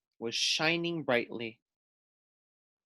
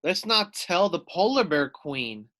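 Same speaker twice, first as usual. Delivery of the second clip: snuffling; 3 semitones higher than usual. Acted. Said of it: "snuffled Harry Clary".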